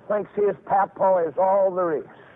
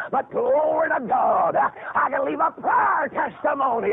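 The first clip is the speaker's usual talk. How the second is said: preaching at full force; 3 semitones higher, slower than usual. Acted. Preacher exclaiming.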